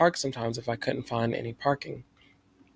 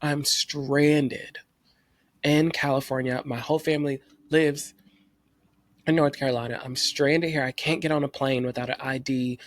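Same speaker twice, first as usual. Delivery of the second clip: freaked out. Retold or imitated. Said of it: "extra freaked out".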